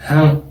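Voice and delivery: "Rã" with the A through the nose; one nasal syllable, "Rã"; nasalized vowel. Shown as a demonstration. Teacher showing that the A is nasalized. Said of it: "es nasalizada".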